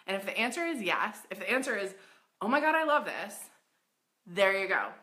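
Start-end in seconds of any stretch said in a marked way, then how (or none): 2.4-3.3 excited gush. Pretend. Excited shopper quote.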